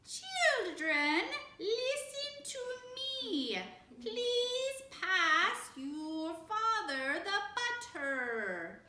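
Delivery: forced sing-song pitch, far up; mother straining to speak distinctly; high unnatural voice. A narrator's reading. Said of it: "in a high, unnatural voice".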